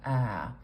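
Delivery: "ah" as the open front vowel in "trap". Shown as a demonstration. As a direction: drop the jaw for a held "ah", as in "trap". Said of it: "It's the trap vowel".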